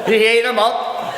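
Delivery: measured storytelling verse with strong rhythm; lilting performance of a funny poem; comic poem recital. Acted. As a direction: recite rhyming verse to an audience, pausing for effect.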